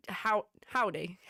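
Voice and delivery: slow, halting stab at an Australian accent; unconvincing Australian twang on "howdy"; attempted Australian accent. Shown as a demonstration. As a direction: try an Australian "howdy", ending it on "day". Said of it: "That doesn't sound Australian".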